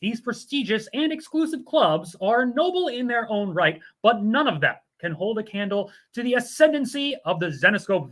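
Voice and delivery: upbeat promo announcer read. Acted. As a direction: sell the membership like a commercial. Reads a sponsor ad.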